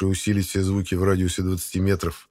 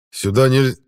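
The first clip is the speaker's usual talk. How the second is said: guard's shout; 6 semitones higher, 7 dB louder than usual. Acted. Guard cut off mid-word.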